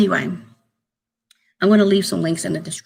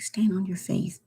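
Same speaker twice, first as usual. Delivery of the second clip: whisper; 8 dB quieter than usual. Real, not acted. Whispering her faith advice to subscribers. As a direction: repeat it as an unvoiced whisper.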